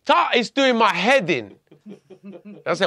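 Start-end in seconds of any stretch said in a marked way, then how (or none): 0.0-0.3 imitated police call, much higher and louder; officers shouting. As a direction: shout the name like a raid. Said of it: "they're all running in saying".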